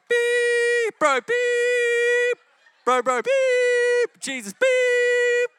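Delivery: high, loud, slow bleeps with bro; bleeped caller. Retold or imitated. Callers on speakerphone swearing, bleeped high and loud. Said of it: "It's all censored".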